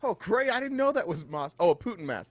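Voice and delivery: high, sing-song "oh, great" as if just realising; mock surprised reporters. Host mimicking reporters pretending to be surprised, high mock surprise. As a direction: ham up the reporters' fake surprise. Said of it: "you hear other reporters like".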